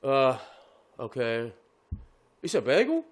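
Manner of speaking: lightly voiced dim fast-food kid; low, hesitant kid, rising into confusion; slow-witted drive-thru kid. Kid on the speaker checking a bagel order, a hint of slow-witted confusion. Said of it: "This kid sounds like a fucking".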